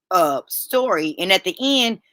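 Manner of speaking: talking through hiccups; words broken by hiccups. Real, not acted. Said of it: "y'all, I got the hiccups".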